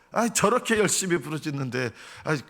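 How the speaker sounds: mildly scornful jeer; lightly acted taunt of a believer; mocking. People question where David's God went, mildly mocking. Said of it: "이러면서 다윗 조롱하고".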